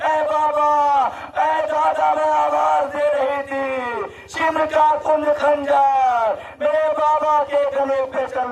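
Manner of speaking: high, keening child's plea voiced by a preacher; anguished lament. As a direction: cry it out in agony, stretching the phrase endings. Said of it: "तड़प के कहती है". (तड़प कर, ऊँचे सुर में खिंची हुई फ़रियाद)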